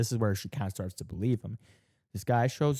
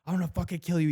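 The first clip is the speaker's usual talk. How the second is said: retold threat; 7 semitones higher, faster than usual. Retold chase after cloaked intruder.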